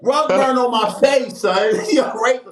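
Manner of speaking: excited. Real, not acted. Loud laughing emphasis.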